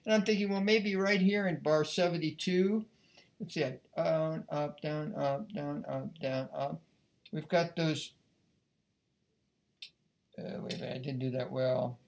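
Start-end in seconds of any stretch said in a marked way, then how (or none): 4.0-6.8 softer, fading count of bowings; counting bows. Shown as a demonstration. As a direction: mutter the bowing pattern to yourself. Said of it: "counting bowings".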